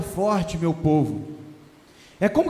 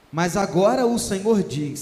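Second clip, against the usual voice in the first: preaching scripture reading. Acted. Pastor reading Haggai to his congregation, solemn proclaiming. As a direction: proclaim every line like a herald. Reads the prophecy aloud, preaching.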